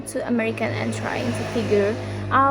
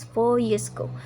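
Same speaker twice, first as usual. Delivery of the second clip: "four" hit hard, falling tune; stress on four. Shown as a demonstration. Teacher showing which word the YouTuber stresses. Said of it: "how he stressed the important words".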